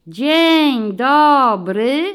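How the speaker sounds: slow drawn-out sing-song chorus; children in chorus. A narrator's reading. Children answer the guest: slow chanted chorus. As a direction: stretch it like a whole class answering together. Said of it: "odpowiedziały zgodnie maluchy".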